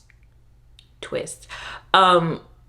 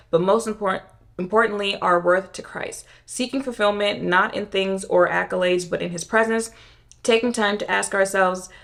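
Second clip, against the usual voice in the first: stuffy nasal reading voice; reading on with a congested nose; blocked nose. Real, not acted. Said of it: "Can't breathe".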